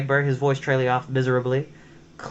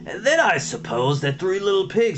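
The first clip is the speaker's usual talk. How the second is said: dry mocking sarcasm; sarcastic; 2 semitones higher than usual. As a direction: sneer the absurd story. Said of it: "laden with sarcasm".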